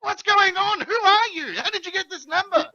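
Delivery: a boss fed up with no details; exasperated boss. Retold or imitated. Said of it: "Zed's like".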